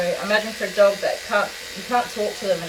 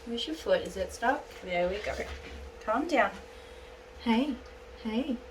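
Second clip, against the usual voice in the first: reassuring; 2 semitones higher, 8 dB quieter than usual. Real, not acted. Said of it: "Just keep reassuring her".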